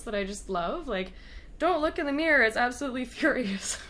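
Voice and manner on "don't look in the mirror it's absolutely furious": Doctor quote with a touch of Scottish; hint of a Scottish accent, higher and louder; quoting the Doctor. Fan quoting the Doctor, lightly Scottish. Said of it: "you gotta do your best Scottish accent".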